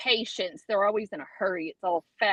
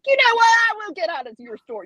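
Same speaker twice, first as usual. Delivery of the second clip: retold comeback; 9 semitones higher, 4 dB louder than usual. Retold quarrel at gas station.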